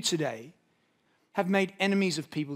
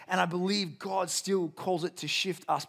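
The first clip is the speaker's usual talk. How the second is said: ordinary talk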